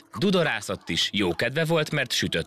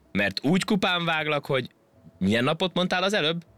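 monkey voice; 10 semitones higher than usual. A narrator's reading. Monkey threatens the ant.

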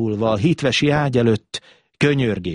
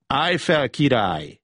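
lightly voiced sweet child; sweet childlike voice; 3 semitones higher than usual. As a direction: gently tell him, with a touch of childlike sweetness. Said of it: "szólt rá a rák kedves gyermeki hangon".

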